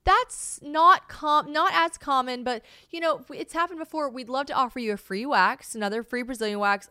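mock the salon's placating offer; salon receptionist. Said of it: "the place I went goes".

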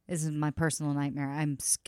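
short of breath with panic; breathless, tight-chested fear; shallow breathing. Real, not acted. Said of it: "I'm getting short of breath".

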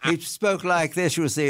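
light mock-British Oxford accent. Shown as a demonstration. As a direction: give a brief Oxford-educated British impression. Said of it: "he had a British accent".

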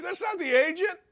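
indignant high shout; shouted rebuttal. Real, not acted. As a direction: bark it back in outrage. Angry rebuttal to columnist.

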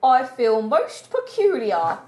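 lightly put-on posh English voice; a hint of a plummy aristocrat. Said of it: "I was putting on a voice".

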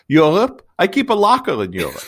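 lightly voiced old man, high and a bit loud on the first word; a hint of a creaky old joker delivering the punchline; a touch of the ancient comic sage; 2000 Year Old Man. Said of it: "a two thousand-year-old man joke".

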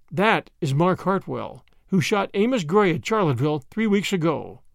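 plain reading voice

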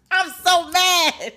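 laughing, slow and high; amused mock fury; laughing mad. Real, not acted. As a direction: laugh through admitting you're still mad. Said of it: "Can you tell I'm still mad?".

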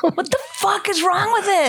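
laughing exasperation; incredulous through laughter. Real, not acted. Repeats it laughing.

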